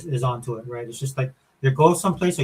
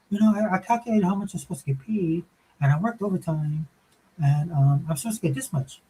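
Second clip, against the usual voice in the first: higher, lightly voiced young daughter; 3 semitones higher than usual. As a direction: play the confused young daughter.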